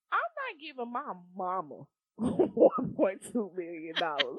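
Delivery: stifled giggles. Real, not acted. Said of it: "I'm trying not to laugh".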